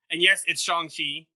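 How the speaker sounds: Shang-Chi slowly and deliberately as Shahng-chee; careful Shang-Chi. Shown as a demonstration. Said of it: "I've been saying it wrong".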